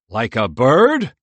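slow, awed squirrel question; in wonder. A narrator's reading. Merle asks Michael about the drone, slowly in wonder. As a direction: ask it slowly, full of wonder. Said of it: "Merle asked in wonder".

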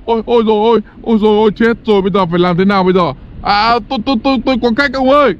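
fast, frantic gabble; cornered demon pleading fast; panicked babble. Acted. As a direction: rush it out in a panic.

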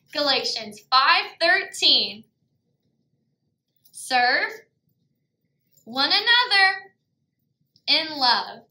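slow, deliberate phrases with long gaps; call for echo. Shown as a demonstration. Teacher leads children in echoing a memory verse, slow call for echo. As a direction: say it bit by bit for children to repeat. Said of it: "I want you to be my echo".

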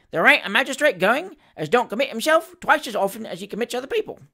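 lively, impudent quip with pitch rising; lightly voiced Cockney wag; cheeky Cockney manservant. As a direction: needle the magistrate cheekily. Voices Sam Weller's cheek.

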